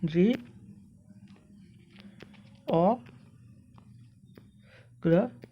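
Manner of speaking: जी, ओ, ग्र as separate sounds with long pauses; syllable by syllable. Shown as a demonstration. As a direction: sound out जी ... ओ ... ग्र while writing. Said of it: "Hindi में इस प्रकार लिख सकते हैं".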